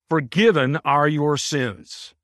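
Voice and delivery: slow, Forgiven hit first and falling; stress on Forgiven. Shown as a demonstration. Teacher reads the verse slowly, emphasis on Forgiven. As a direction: put the weight on Forgiven, then ease off. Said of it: "it's done that way for emphasis".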